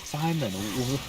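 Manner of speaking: high, loud mock outrage; exasperated. Real, not acted. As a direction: shout him down in disbelief.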